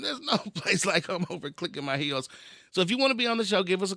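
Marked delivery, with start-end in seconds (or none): 0.0-2.3 laughing through it. Shown as a demonstration. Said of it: "One more time".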